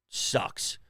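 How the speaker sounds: breathless whispered sigh. Real, not acted. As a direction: whisper it, beaten down. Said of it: "I got beat down by a hammer".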